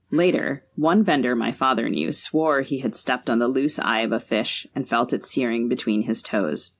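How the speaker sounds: measured literary reading, unhurried and even; story narration. Acted. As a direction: read the passage like an author at a launch. Author reads from her novel.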